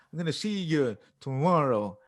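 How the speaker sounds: lightly imitated odd stresses; mild impression with misplaced stresses; Christopher Walken. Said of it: "he talks like".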